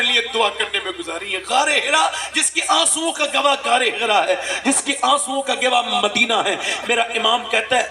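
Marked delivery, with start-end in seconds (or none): 1.5-6.6 rising, impassioned sermon cry; preaching at full force. Acted. Preacher crying out to the gathering, impassioned. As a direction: build the crowd with fervor.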